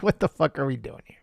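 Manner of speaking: a whispered aside of disbelief; a hushed, incredulous aside. Real, not acted. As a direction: whisper it under your breath.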